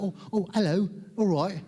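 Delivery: hammed-up mock British accent. Malaysian adapting on meeting a British person, hammed-up British accent. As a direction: overdo a British accent while agreeing eagerly. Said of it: "suddenly we meet a British person".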